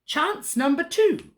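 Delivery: slow, high-pitched villain announcement; grudging wizard. A narrator's reading. Wizard grants princess another chance to escape, theatrically. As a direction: proclaim it slowly as the wicked wizard. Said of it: "he grunted".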